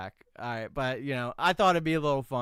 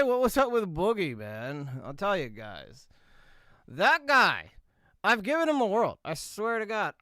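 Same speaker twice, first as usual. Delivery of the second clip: a light send-up of a drama YouTuber; smug YouTube drama host; Keemstar impression. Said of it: "Keemstar, Killer Keemstar".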